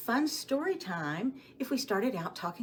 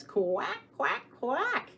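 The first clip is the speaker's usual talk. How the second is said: a playful quack, rising higher each time; duck quack; 7 semitones higher, slower than usual. Acted. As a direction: quack like a cartoon duck for the kids. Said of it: "and he says".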